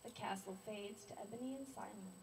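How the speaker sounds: deliberate poem reading, phrase by phrase; poetry recital. Acted. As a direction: read your poem aloud, pausing between images. Recites own poem to audience.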